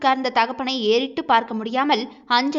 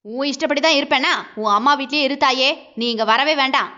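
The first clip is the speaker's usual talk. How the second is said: angry husband. Acted. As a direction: bark the order at her. Husband yelling at wife.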